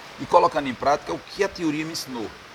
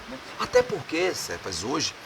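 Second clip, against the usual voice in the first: ordinary talk, nothing marked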